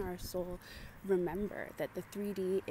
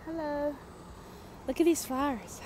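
delighted; 7 semitones higher than usual. Real, not acted. Delighted greeting to flowers on walk.

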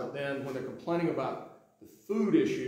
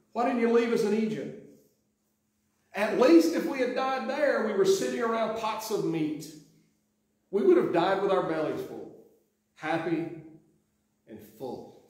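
higher, louder sighing complaint, mock grumbling; whining Israelites; 6 semitones higher, 4 dB louder than usual. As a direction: play the complaining crowd, sighing and pleading.

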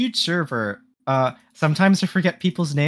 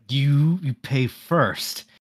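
slow stern cashier; stern fast food worker; much slower than usual. Acted. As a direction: lay down the rule slowly. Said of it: "fast food worker voice lines".

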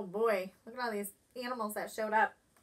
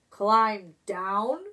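surprised eagle; 3 semitones lower, 6 dB louder than usual. Acted. Eagle startled by request.

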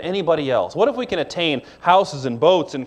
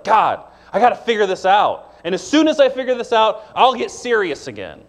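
lightly voiced fretting believer, pitch higher; mock the excuse to God in a higher voice; imitating a busy believer; 6 semitones higher than usual. Voicing a distracted believer's excuse.

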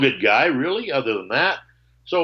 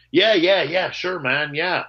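mock quick, higher-pitched brush-off; glib agreement; 5 semitones higher, slower than usual. Player brushing off his offer to fill in, glibly agreeing. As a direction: imitate an easy, empty promise. Retells guy's empty promise to call.

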